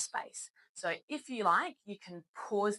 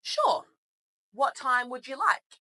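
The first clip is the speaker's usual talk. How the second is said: bright, higher, louder receptionist on the phone; 5 semitones higher, 8 dB louder than usual. Shown as a demonstration. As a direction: play the cheerful receptionist answering. Teacher voices the receptionist.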